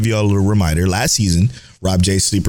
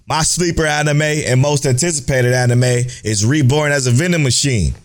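reading in all caps; 6 semitones higher than usual. Shown as a demonstration. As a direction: read the tweet like shouting in capitals. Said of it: "I had to read it in all caps for y'all".

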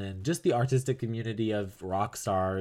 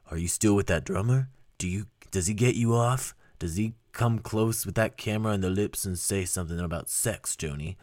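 lightly voiced a famous singer-songwriter. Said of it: "she says in Bob Dylan's voice".

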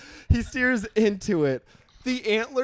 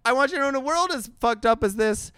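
mock sign-off; 4 dB louder than usual. Shown as a demonstration. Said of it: "It's still a C plus".

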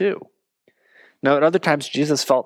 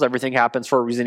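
mock platitude; 4 semitones lower, much faster than usual. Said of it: "we say to ourselves".

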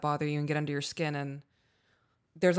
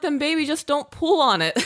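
high, loud, through laughter; amused, raised voice; laughing retelling; 9 semitones higher, 7 dB louder than usual. Real, not acted. Retelling advice to daughter, laughing.

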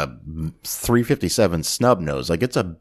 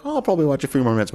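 imitating dad; 7 semitones higher, much faster than usual. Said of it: "my dad's like".

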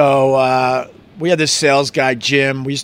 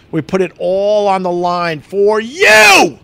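emphatic shout; 4 semitones higher, 3 dB louder, slower than usual. Real, not acted. Passionate declaration to listeners.

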